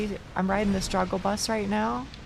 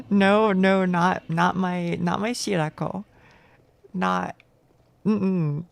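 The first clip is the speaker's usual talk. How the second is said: pleading cry; 5 dB louder, slower than usual. Real, not acted. Boss about to kill him.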